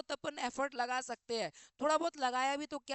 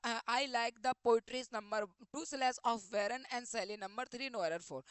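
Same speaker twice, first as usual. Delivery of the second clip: slow question reading; much slower than usual. Acted. Reads the question sentence aloud.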